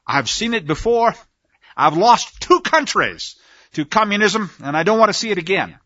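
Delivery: lightly imitated British accent, clipped and refined; a hint of a well-spoken British accent, slowed on the middle line; friend's British accent, only loosely imitated; erudite British accent. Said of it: "in this very erudite British accent".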